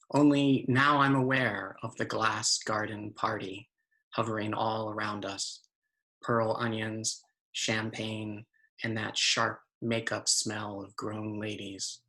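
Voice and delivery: measured narrating poem voice; poetry reading. Acted. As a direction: recite it phrase by phrase, with pauses.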